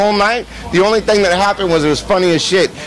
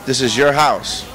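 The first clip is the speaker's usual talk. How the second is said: calm lowered Suge; 7 semitones lower than usual. Retold or imitated. Suge promising the host no trouble, low and calm. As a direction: lay it down low and steady. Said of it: "and he goes".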